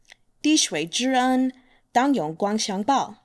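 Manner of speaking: "滴水之恩， 当永光相报" at natural pace; flowing natural "滴水之恩"; proverb at normal speed. Shown as a demonstration. 用正常语速说成语. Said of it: "So again".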